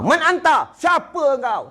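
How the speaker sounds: high, slow solemn "Man anta?"; angel questioning. Retold or imitated. The angel questioning the dead in the grave, high and solemn.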